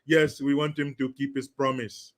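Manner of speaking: lightly imitated Haitian French accent; halting English with a French accent. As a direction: answer in a mock French accent. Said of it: "They were speaking with a thick French accent".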